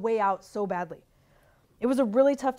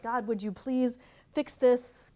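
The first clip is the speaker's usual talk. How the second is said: polite prayer; 3 semitones higher, slower than usual. Retold or imitated. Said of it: "kind of polite".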